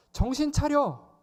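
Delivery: loud, high rebuke to snap them awake; scolding shout. Retold or imitated. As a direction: bark it like an angel scolding dazed disciples. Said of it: "꾸짖는 거예요". (큰 소리로 꾸짖듯이)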